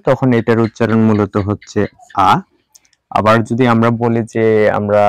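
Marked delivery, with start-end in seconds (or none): 2.3-2.3 British letter R, "আ" without r; British-style long "ah" for R. Shown as a demonstration. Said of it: "British অ্যাকসেন্টে বলবো".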